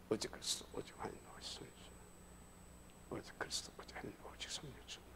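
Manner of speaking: whispered repetition, just audible to your own ear; 입으로 나직이 되뇌기. Shown as a demonstration. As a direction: murmur it under your breath like a repeated confession. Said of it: "내 귀에 들리게. 속으로 하지 말고". (혼자 들릴 만큼 속삭이듯 되뇌는 소리)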